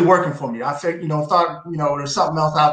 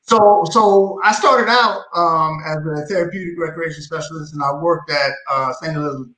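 talking around new braces; words slightly fumbled by braces. Real, not acted. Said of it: "Sorry, I just got braces".

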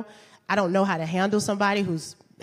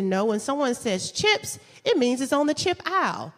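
insistent; 4 semitones higher than usual. Retold or imitated. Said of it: "I said".

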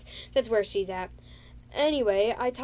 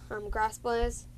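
ordinary talk

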